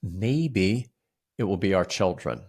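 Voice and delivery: usual speaking voice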